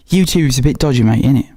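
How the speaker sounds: a light mock British accent, slangy and chummy; 用轻微的模仿英国口音说这句话. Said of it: "support these lovely, wonderful accents".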